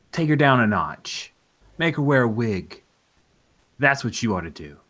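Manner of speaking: a swaggering shock jock advising a caller, loud and pushy; brash radio DJ. Acted. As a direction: sell bad advice like a shock jock. DJ giving outrageous advice.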